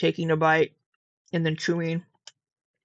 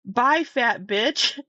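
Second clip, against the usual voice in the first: drawn-out, higher mock brush-off; imitated dismissal; 4 semitones higher, much slower than usual. Retelling a stranger's rude goodbye, drawn-out mock dismissal. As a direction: mimic her signing off, stretching it out. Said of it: "she's like".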